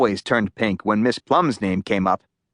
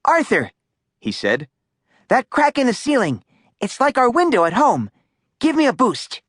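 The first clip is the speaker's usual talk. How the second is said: put-on eager boy; 10 semitones higher than usual. A narrator's reading. Stanley speaks.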